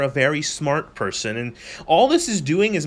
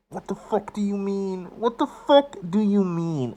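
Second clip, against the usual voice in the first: incredulous; 7 semitones higher than usual. Real, not acted. Shocked by game dialogue.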